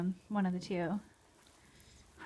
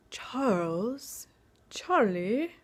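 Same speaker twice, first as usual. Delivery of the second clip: whisper; 2 semitones higher, much slower than usual. Real, not acted. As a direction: whisper his names to catch his attention. Whispering dog's names to him.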